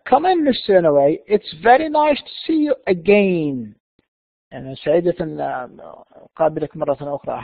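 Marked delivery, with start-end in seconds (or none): 0.1-3.8 slow, deliberate welcome; careful model reading. Shown as a demonstration. Manager welcomes the visitor back, slow careful model reading. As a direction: read the welcome slowly and clearly. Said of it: "listen carefully and see how words are pronounced".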